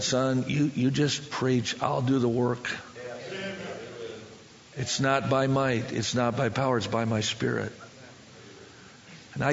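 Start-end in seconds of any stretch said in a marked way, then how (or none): 0.0-7.7 low, measured, unhurried words; calm reassurance. Retold or imitated. God telling the preacher He'll do the work, calm and low. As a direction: settle him with quiet authority.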